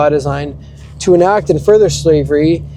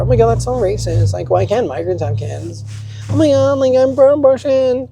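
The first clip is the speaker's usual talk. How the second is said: mock outrage; 8 semitones higher than usual. Mocking an outraged progressive.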